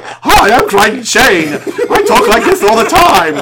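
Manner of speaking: put-on high, slow, giggling jolly old uncle; Crichton Shane as Uncle Albert. Greeting a stranger at the con, in a high, giggling Uncle Albert voice. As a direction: laugh through every word like merry Uncle Albert. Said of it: "my impression of Crichton Shane as Uncle Albert from Mary Poppins".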